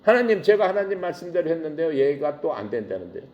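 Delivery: a light mock whine; whining. Moses mildly whines to God about Pharaoh's refusals. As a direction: complain like a sulky child tattling. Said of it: "하나님 앞에 가서 징징거려".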